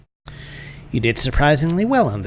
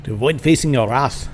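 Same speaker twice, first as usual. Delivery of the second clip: put-on muddled German accent, lifted in pitch; 3 semitones higher than usual. Master sending off a visitor, in a muddled German accent. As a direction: put on a rough German accent and dismiss him.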